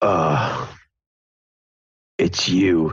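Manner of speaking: cryptic-sounding delivery. Voicing Seamus meeting someone he expected: cryptic. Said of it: "says that rather cryptically".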